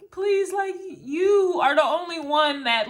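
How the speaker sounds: high, urgent plea from a guardian angel; pleading angel voice. Retold or imitated. Angel begging the reader to help, high and pleading. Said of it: "the angel is like".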